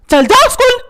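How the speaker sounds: exasperated father's order; scolding order. Acted. Father orders son to school.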